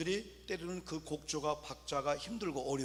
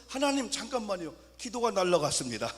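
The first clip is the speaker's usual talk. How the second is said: higher and louder, a panicked plea; flustered mock prayer; 3 semitones higher, 5 dB louder than usual. Praying man whose prayer sheet blew away, mock panic. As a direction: blurt it out like the paper just flew off. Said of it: "얼마나 급했으면".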